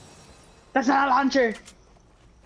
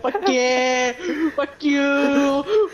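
gleeful yelling; 4 semitones higher, slower than usual. Real, not acted. Triumphant yelling at game.

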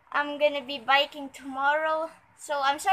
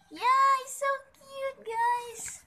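gushing; 10 semitones higher, slower than usual. Real, not acted. Gushing over the puppy.

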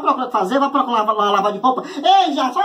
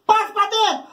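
mother yelling from gate; 6 semitones higher than usual. Retold or imitated. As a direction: bellow at him from the gate. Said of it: "dizia assim".

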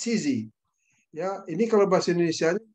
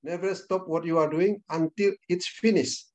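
slow, deliberate; slower than usual. Shown as a demonstration. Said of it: "Konsisten itu apa".

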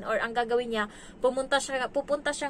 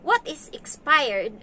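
put-on slow, higher, louder kid's question; a hint of a curious little kid; imitated child's question; 4 semitones higher, 5 dB louder, slower than usual. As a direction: lightly voice a puzzled child asking. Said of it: "Kapag nagsabi siya ngayon".

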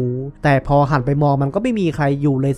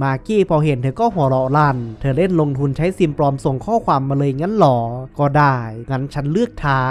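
usual speaking voice

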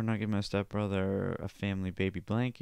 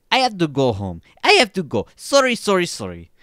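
high, loud frantic outburst; 7 semitones higher, 9 dB louder than usual. A narrator's reading. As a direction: act out a panicked, hurried excuse. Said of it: "she frantically said".

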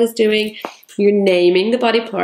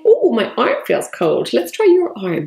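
gentle pretend play; 4 semitones higher than usual. Shown as a demonstration. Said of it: "put it on your arm and say".

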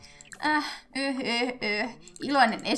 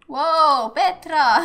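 loud, higher-pitched amazed outburst; excited exclamation; 5 semitones higher, 7 dB louder, much slower than usual. Real, not acted. Player reacts to what Petra does in the game, excited exclamation. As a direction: exclaim it loudly in surprise.

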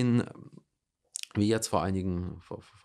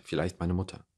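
"Vielleicht" said with weight, slightly lowered; stress on vielleicht; 3 semitones lower than usual. Real, not acted. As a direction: lean on "Vielleicht" as the doubtful word. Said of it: "Betonung auf vielleicht".

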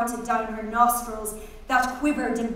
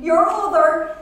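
high laughing scream; 6 semitones higher, 7 dB louder than usual. A narrator's reading. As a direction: squeal it through giggles.

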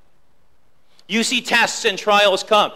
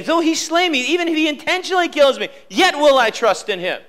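Job's surrender; 3 semitones higher than usual. Acted. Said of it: "Now here Job is saying".

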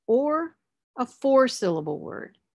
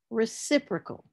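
RECIPROCAL as re-CIP-ro-cal, pitched up on CIP; stress on second syllable; 4 semitones higher than usual. Shown as a demonstration. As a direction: lift CIP in reciprocal, higher. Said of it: "the stress will be on the third from the end".

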